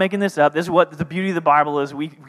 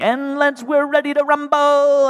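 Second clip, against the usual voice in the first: much higher, hammed-up fight announcer; ring announcer; 11 semitones higher, 3 dB louder than usual. Contest announcer calling Elijah versus Baal, hammed-up announcer. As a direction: boom it out like a boxing MC.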